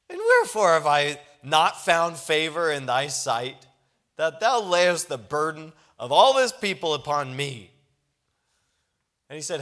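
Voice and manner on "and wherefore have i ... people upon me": louder, crying out to God in protest; pleading outcry. Retold or imitated. Moses protesting loudly to God about the people. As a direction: lift it into a desperate appeal.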